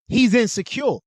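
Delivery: quoting what women say, in a mock whiny voice; mocking women's excuse. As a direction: parrot the excuse in a sneering put-on voice. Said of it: "y'all try to use displacement and say".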